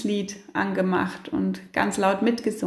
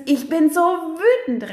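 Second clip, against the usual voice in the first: slow, loud, higher shout of anger; 6 semitones higher, 4 dB louder, slower than usual. Shown as a demonstration. Parent screaming out their anger, not at the child, loud. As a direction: yell the feeling out, stretching "so".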